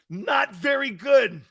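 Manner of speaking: slow exaggerated holler; slow mock shout. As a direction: belt it out slowly for the crowd. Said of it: "shouted again slower".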